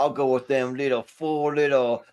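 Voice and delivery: put-on Cajun accent. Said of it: "do it for the Cajun accent".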